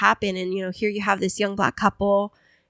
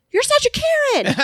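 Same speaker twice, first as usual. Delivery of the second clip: retold yell. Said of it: "he yelled after this lady".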